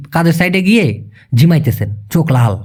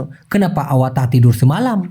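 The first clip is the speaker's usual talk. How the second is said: very slow, each word separate; Malay sentence said very slowly; slow Malay demo; 4 semitones lower, much slower than usual. Shown as a demonstration. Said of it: "teaching Malay sentence slowly".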